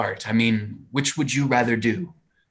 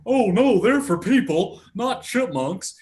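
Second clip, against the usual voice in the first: acted commercial line; 6 semitones higher, slower than usual. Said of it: "And I say".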